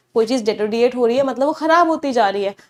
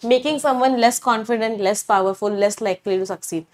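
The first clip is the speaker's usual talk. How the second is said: slow dictation; much slower than usual. Shown as a demonstration. Teacher dictating English definition.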